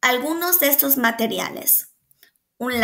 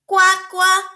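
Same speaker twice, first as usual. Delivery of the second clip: louder, higher quack; duck quack; 6 semitones higher, 5 dB louder than usual. A narrator's reading. Teacher reading a picture book, duck quack. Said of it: "granzó el pato".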